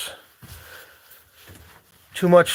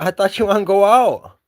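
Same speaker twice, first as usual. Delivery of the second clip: much higher doting dog voice; high pet talk; 9 semitones higher, 4 dB louder than usual. Real, not acted. Owner asking the dog about going out, high pet talk. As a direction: coo it at the dog, pitched way up.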